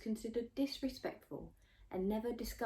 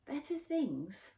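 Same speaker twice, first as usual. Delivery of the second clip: mumbled; 8 semitones higher, slower than usual. A narrator's reading. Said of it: "I mumbled into the pillow".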